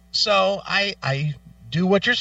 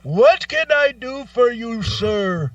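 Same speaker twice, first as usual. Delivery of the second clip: mock phone agent; 7 semitones higher, 4 dB louder, slower than usual. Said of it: "and he goes".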